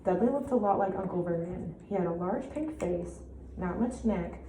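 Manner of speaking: measured storybook reading with clear pauses; story narration. A narrator's reading. Teacher reads Harry Potter to pupils, expressive narration. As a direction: read fluently, emphasizing key words. Listen to how I read this story.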